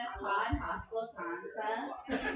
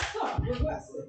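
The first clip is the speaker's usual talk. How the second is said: slow robotic bus announcement; automated bus voice; 5 semitones higher, 3 dB louder, much slower than usual. Retold or imitated. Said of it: "talk like the automated bus voice".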